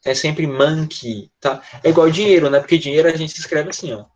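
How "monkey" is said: monkey said slowly as "mɐki", ending in an i sound; slow pronunciation model. Shown as a demonstration. Teacher drilling the correct sound slowly. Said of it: "esse E Y ... som de I".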